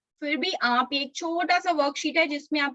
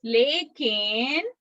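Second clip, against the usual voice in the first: slow, stretched words with lifted endings; slowly, for repeating; much slower than usual. Shown as a demonstration. Teacher leads children repeating the memory verse, slowly. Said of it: "मैं धीरे धीरे बोलूंगी".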